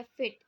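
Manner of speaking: FIT-like "फिट" said as one single sound; one-syllable demo. Shown as a demonstration. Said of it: "एक ही sound आपको दे रहा है".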